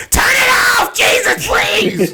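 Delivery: high pleading shout; high mock yell; grandma yelling. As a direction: beg the Lord to stop the music. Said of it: "grandma in the back be like".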